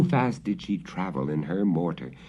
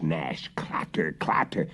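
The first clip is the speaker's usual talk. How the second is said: whispered; 4 semitones lower, 5 dB quieter than usual. A narrator's reading. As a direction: hush the approaching sounds. Witch approaching, sound words.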